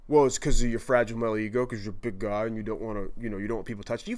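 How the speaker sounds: imagined heckler. Pretend. Imagined listener mocking him.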